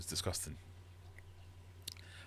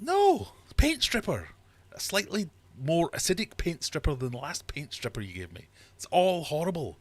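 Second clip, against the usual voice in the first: much higher, much louder shout of disgust; outraged shout; 10 semitones higher, 7 dB louder than usual. Retold or imitated. Mocking tasting notes to viewers, disgusted shout. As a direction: yell it like the drink burns.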